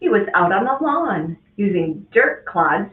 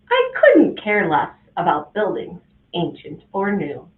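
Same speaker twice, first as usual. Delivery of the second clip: stern teacher. Acted. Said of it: "she had this to say".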